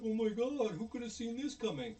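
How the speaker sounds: high-pitched, exaggerated shock; mock astonishment. Viewer mocking characters attacked at the helicopter, mock astonishment. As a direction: imitate clueless disbelief, hammed up.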